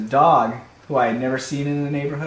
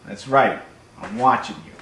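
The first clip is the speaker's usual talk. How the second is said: menacing cat; 4 semitones lower than usual. Acted. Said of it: "And my cat would be like".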